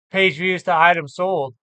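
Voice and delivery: talking through a yawn. Real, not acted. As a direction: stretch the words in a yawn. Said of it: "sorry about the yawning".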